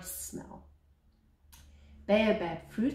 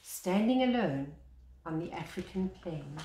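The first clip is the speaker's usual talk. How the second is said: measured picture-book reading, lingering on each line; story narration. Acted. Reading the baobab picture book aloud to children, storyteller voice. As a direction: read it like a gentle bedtime tale.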